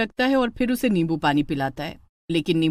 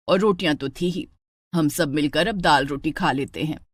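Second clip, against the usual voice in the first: lower, coaxing mother-in-law voice; 5 semitones lower than usual. Acted. Mother-in-law coaxes the bride not to cook, lower voice. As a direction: talk her out of cooking sweetly.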